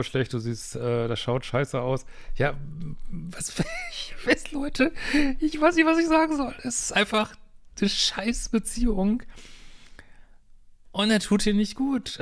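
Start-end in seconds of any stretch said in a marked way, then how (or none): 3.1-12.2 high-pitched, talking through laughter; helpless laughter. Real, not acted. Helpless laugh at absurd relationship drama.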